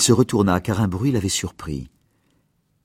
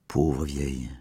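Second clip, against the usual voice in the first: soft, low murmur of pity; 5 semitones lower, 6 dB quieter, slower than usual. Acted. Doctor moved by the grieving old mother, soft murmur. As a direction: breathe it out quietly, moved.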